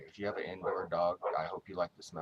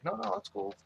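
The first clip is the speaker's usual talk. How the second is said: imitating the stranger; 12 semitones higher, 3 dB louder than usual. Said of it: "He's like".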